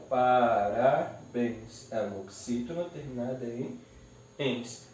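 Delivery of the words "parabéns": "parabéns" slowly split into pa, ra, béns; syllable by syllable. Shown as a demonstration. Teacher separates the word, "parabéns" syllable by syllable. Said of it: "eu separo".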